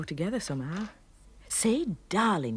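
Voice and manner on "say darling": a slow, louder mock command; mild mock shout, drawn out; retold shout. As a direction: order it like the cross husband. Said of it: "you shouted at me".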